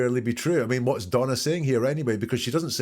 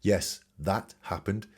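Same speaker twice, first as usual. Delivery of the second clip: cold, factual; slower than usual. Retold or imitated. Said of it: "Very cold and very factual".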